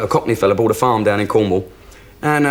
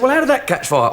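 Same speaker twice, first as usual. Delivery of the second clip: mock panic, high; 12 semitones higher than usual. Joke: owner high-pitched alarm.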